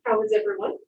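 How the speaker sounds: muffled behind a mask; speaking through a face mask. Real, not acted. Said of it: "Can you hear me through the mask?".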